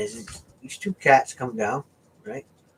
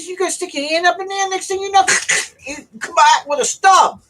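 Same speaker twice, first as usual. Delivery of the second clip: retold warning; 4 dB louder than usual. Retold warning about alligators.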